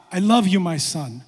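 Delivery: gentler fatherly declaration, no boom; lightly voiced divine tenderness; God's voice. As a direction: say it simply, as a loving God. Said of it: "Here's God".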